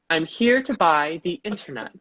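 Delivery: slow, mock British older lady; British accent. Older woman in the store, slow mock British accent. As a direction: draw it out in put-on British. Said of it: "I'll keep doing her as such".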